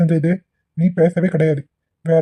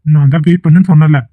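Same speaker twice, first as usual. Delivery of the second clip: dismissive brush-off; 4 dB louder than usual. Acted. Boyfriend dismissive and loud.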